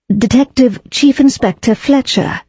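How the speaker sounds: "Detective Chief Inspector Fletcher," each word of the title spelled out firmly; severe correction. A narrator's reading. Daisy correcting Bobby on the inspector's name, severely. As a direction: correct her, giving the full rank with weight. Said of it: "said Daisy severely".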